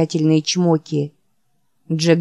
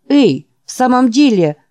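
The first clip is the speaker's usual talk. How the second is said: exasperated shout; 6 semitones higher, 5 dB louder than usual. Acted. Jack protests.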